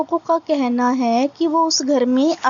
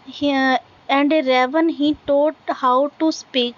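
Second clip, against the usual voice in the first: very slow, deliberate recitation, word by word; slow poem reading; much slower than usual. Acted. Teacher reading a poem line to students, slow recitation. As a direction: read each line out slowly for the class to follow.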